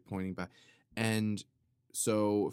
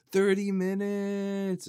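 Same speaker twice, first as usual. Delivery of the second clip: laughing; 10 semitones higher, 5 dB louder, slower than usual. Real, not acted. Laughing correction of the movie role.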